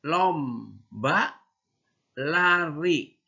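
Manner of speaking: slow teacher model; model for repeating. Shown as a demonstration. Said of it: "Sekali lagi".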